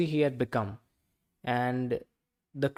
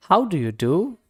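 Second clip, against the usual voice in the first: higher, brighter greeting from the duck; a lightly voiced polite duck; 3 semitones higher, 5 dB louder than usual. A narrator's reading.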